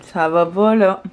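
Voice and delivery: numb lips after the dentist; numb mouth. Real, not acted. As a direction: talk through a frozen mouth. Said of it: "Je sens plus ma bouche".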